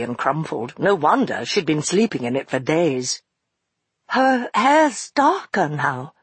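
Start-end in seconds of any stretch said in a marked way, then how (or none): 4.1-6.1 slow, halting words; stammering. Acted. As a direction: stumble over the words. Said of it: "she stammered".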